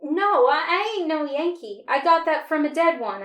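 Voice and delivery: loud, stumbling, panicky denial; scared sputter. A narrator's reading. Captured boy sputters a loud frightened denial to soldiers. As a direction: blurt it out fast to talk your way clear. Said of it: "I sputtered".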